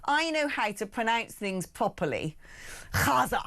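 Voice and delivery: mock know-all saying "Gaza" with a throaty, rasped kh; mockingly over-correct "Gaza", scraping the first consonant; affected pronunciation. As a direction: say "Gaza" as "KHAH-za", showing off. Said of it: "We don't say Gaza".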